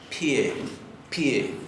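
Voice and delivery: "pie" with a small I glide before the E; Icelandic P. Shown as a demonstration. Teacher demonstrating the letter P as Icelanders say it, "pie". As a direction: say "pie" as one syllable, "pyeh". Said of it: "ellos la van a pronunciar".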